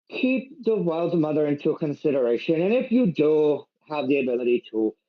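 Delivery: lightly put-on Irish lilt, gently advising; a hint of Irish brogue, kindly counsel; Irish accent. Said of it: "Where the fuck did this Irish accent come from?".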